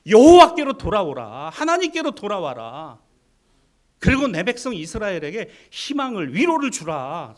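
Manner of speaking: booming prophetic summons; prophet crying out. Acted. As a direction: cry out to the kings like a prophet. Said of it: "그는 왕실에서 외쳤습니다".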